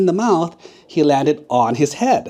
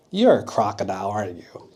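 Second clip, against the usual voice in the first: knowing whisper; 5 semitones lower than usual. Acted. Monkey exposes crocodile.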